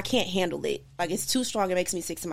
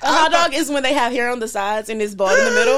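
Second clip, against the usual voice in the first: laughing explanation; 3 semitones higher, 6 dB louder than usual. Real, not acted.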